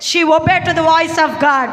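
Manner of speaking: slow emphatic preaching. Acted. Preacher stresses Hagar obeyed God.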